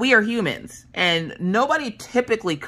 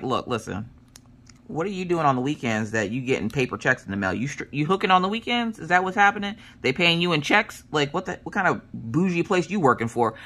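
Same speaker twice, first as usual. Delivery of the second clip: mock accusing; 3 semitones lower than usual. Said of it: "and I was like".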